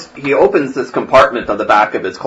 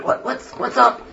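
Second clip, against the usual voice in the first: a hint of a drowsy old priest, higher; waking old priest muttering; groggy old priest; 13 semitones higher, 3 dB quieter than usual.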